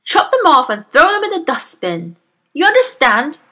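high, loud barked command; barked order. A narrator's reading. Trunchbull demanding the pigtails be chopped off, barking. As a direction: bark orders, demand obedience. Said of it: "she barked".

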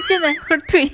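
喝退 said through a laugh; laughing demo. Shown as a demonstration. Host showing her new scolding, laughing. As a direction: laugh while you scold.

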